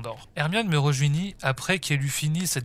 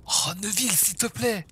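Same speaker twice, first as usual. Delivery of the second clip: lightly acted high, urgent exchange; high-pitched insisting; 7 semitones higher than usual. A narrator's reading. Neville and Ginny over a secret crush, insistent.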